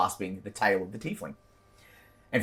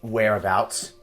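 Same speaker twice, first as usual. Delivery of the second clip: louder, menacing patron giving orders; commanding patron voice; 3 dB louder than usual. Acted. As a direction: threaten the mercenaries like a cruel fey patron. Patron voice again.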